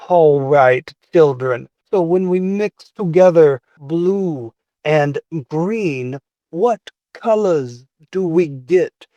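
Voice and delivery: lightly voiced teacher with slow, spaced-out questions; teacher to children. A teacher quizzing young children on mixing colors, slow teacher voice. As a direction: teach a class of children, drawing the words out. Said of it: "you hear a voice saying".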